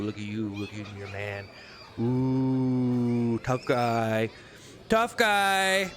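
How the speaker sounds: a wife fawning over her tough-guy husband, mockingly cooing; mocking a doting wife. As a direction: gush over her man in a teasing singsong. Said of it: "It's just like".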